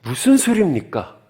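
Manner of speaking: lightly voiced indignant disciple; Peter protesting. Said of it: "오늘 같으면 이렇겠죠". (베드로의 가벼운 항의 목소리)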